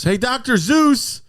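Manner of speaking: high, loud, drawn-out mock shout; movie character calling out. Guy in the movie hailing a doctor, high mock shout. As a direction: holler the name slowly, way up high. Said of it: "And the guy goes".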